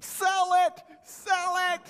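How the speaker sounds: loud high shout; yelling at TV. Retold or imitated. Preacher reliving yelling at the TV show, loud shout. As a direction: bellow it at the screen. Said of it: "throwing them at the T V".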